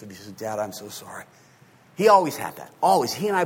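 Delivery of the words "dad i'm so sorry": humble apology. Retold or imitated. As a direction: drop your voice and apologise humbly. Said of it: "he's so humble, so gracious".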